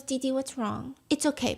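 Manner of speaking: comforting mother. Retold or imitated. Judan comforting crying Didi.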